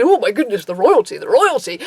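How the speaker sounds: hammed-up starstruck gush with swooping pitch; singsong mock excitement; mock awe. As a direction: imitate a child overawed by royalty. Mimics young people's awe.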